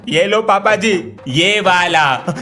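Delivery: slow, drawn-out ये लो पापा जी; slow, deliberate handover. Acted. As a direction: hand it over slowly and carefully, ये वाला. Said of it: "बदल कर लाओ". (धीरे-धीरे, सोच-समझकर)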